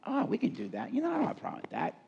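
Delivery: high, quick carefree voice; breezy flexible person. Retold or imitated. Imitating healthy flexible people, breezy and fast. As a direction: toss it off like it's no big deal.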